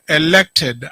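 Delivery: elected said slowly, each syllable pressed, falling at the end; stress on elected. Real, not acted. Governor to the county assembly, pressing elected with stress. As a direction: lean hard on elected, set it against selected. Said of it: "I want to emphasize the word elected".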